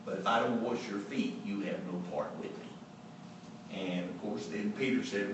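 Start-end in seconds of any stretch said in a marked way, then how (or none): 0.0-3.8 calm. Retold or imitated. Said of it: "Jesus calmly says".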